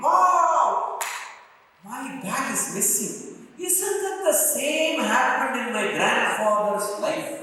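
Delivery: high-pitched, gleeful wonder; acted happy surprise; delighted amazement. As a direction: marvel at it, voice lifted high. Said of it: "he suddenly started laughing".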